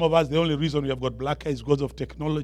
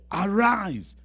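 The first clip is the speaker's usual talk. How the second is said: scriptural command; 5 semitones higher than usual. Acted. Reads God's command to Joshua.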